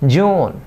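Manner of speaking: জুন with a long "oo"; long vowel. Shown as a demonstration. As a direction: hold the vowel of জুন, then let it fall. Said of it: "এটা long vowel". (জুন-এ লম্বা স্বরধ্বনি)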